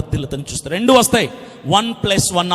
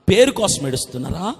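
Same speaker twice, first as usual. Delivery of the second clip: usual speaking voice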